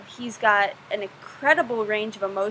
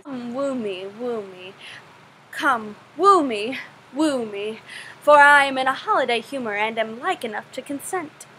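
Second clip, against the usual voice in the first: playful, lightly acted Shakespearean wooing; Rosalind. Quoting a favorite Shakespeare wooing speech, lightly performed Rosalind. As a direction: stretch "woo me" as a light stage recitation. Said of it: "I love it when Rosalind in As You Like It says".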